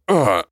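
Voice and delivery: short loud pained yelp; sharp cry of pain. A narrator's reading. Old man cries out clutching his head. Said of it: "он вскрикнул".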